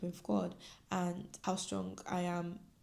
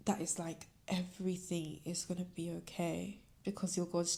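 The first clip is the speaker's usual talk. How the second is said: softly tearing up with real feeling; hushed, heartfelt reassurance; emotional; 4 dB quieter than usual. Real, not acted. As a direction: speak softly, close to tears. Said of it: "I'm getting emotional".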